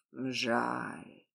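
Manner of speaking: a flat, indifferent single word; bored tone. A narrator's reading. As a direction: shrug it off as if nothing matters. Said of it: "скучающим тоном проговорил я".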